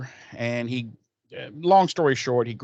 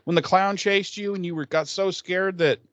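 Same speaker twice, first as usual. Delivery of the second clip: excited voice; 6 semitones higher than usual. Retold or imitated. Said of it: "and she's like".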